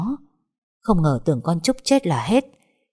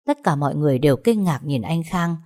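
usual speaking voice

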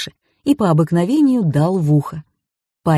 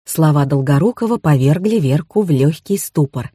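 ordinary delivery

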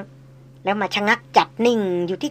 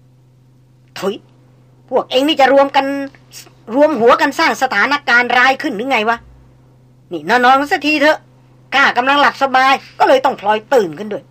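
lightly voiced old hunter grumbling, a touch higher; a hint of an old man scolding the lads; gruff old hunter; 4 semitones higher, 4 dB louder than usual. Old tracker scolding the porters to go back to sleep, mild gruff grumble.

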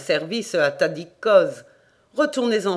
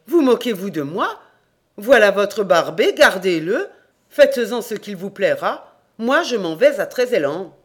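louder, heated refusal; indignant outburst; 3 semitones higher, 4 dB louder than usual. Acted. Jobic to the rector, refusing the cursed dog, indignant. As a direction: throw the dog back at the priest, fuming.

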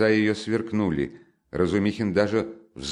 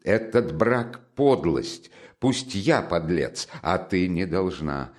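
slow, laboured insistence; summoning last strength; slower than usual. Acted. Exhausted brother forbidding his sister's marriage, with effort. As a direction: push out each phrase deliberately. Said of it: "собрав последние усилия".

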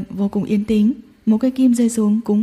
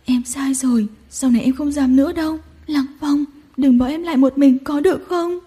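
flustered crying; 3 semitones higher than usual. Acted. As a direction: beg him not to leave. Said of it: "luống cuống khóc". (luống cuống vừa khóc vừa xin)

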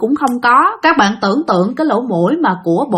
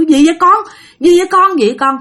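worried calling; 6 semitones higher than usual. Acted. Father runs up calling.

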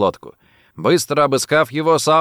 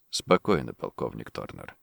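low, much softer, weighty and deliberate; quiet, meaningful; 13 semitones lower, 10 dB quieter than usual. A narrator's reading. Richard calms the captive colonel, quiet and pointed. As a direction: drop the voice, let each word carry meaning. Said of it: "тихо, со значением сказал Ричард".

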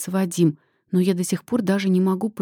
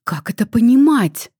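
high, loud screeching mother; mother's shriek on waking the daughter; shrill screech; 4 semitones higher, 7 dB louder than usual. A narrator's reading. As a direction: screech it at her, wound up to a squeal. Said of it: "взвинченный до визга голос мамы".

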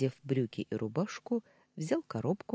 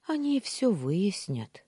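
slow, higher-voiced reassurance; reassuring; 6 semitones higher, 3 dB louder, slower than usual. A narrator's reading. Maid tries to calm the upset wife, reassuring. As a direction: try to soothe, unhurried. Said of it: "попыталась успокоить меня Амина".

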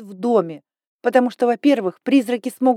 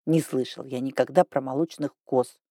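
put-on lower, softer sighing old man; 7 semitones lower, 5 dB quieter than usual. A narrator's reading. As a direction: sigh it out, baffled. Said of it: "вздохнул Сантери".

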